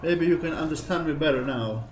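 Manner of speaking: lightly hammed-up Italian accent, like a cartoon plumber; a hint of a jokey Italian accent, teasing; mock Mario-style Italian accent. Teasing an Italian follower in a light mock Italian accent. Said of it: "when I talk like this".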